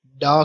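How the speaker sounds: ڈا as a clear retroflex da syllable; isolated da sound. Shown as a demonstration. Teacher showing the sound in lady, a clear ڈا. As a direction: model the sound ڈا for learners. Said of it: "اور لیڈی میں ڈی".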